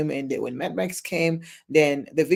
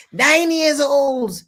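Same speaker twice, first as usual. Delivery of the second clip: shocked exclamation; 8 semitones higher, 5 dB louder, much slower than usual. Real, not acted. Shocked repeat of victim age.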